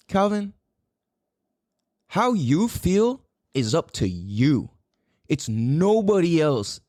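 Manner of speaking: slow, lightly voiced earnest old friend; a hint of a wise old man, measured and slow; serious old mentor. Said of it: "got all serious".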